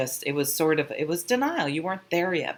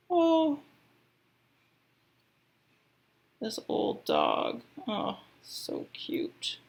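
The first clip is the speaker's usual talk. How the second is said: touched cooing; 6 semitones higher, much slower than usual. Real, not acted. Reader admiring a picture on a new card, touched cooing. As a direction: melt over something cute, drawing it out.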